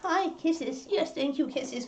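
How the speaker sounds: soft, high pet-talk voice; softly doting on the dog; cooing to a puppy. Real, not acted.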